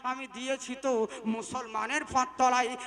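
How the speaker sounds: loud, driving sermon delivery; preaching at full force. Acted. Preacher exhorting the Muslim crowd, loud and driving. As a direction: thunder it out to the crowd.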